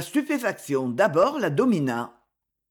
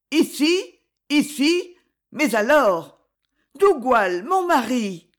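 shocked cry; 5 semitones higher, 4 dB louder, slower than usual. A narrator's reading. Gwen learns her husband is near.

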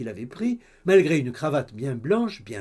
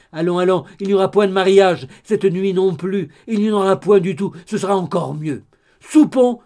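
the gossip mother, louder and excited; 4 semitones higher, 8 dB louder than usual. Acted. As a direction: blurt it all out like a chattering busybody. Madame d'Alin's loud chatter. (la mère bavarde, plus fort et excitée)

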